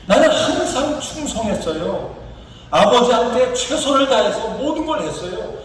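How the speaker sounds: acted indignant grievance of a son; aggrieved son's mock tirade; angry complaint. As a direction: protest to father with mild, mounting resentment. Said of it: "분노하면서, 화를 내면서 이렇게 얘기합니다".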